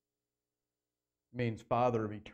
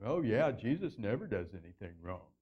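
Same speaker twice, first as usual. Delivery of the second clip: mock sibling gripe. Voices an imagined sibling's gripe.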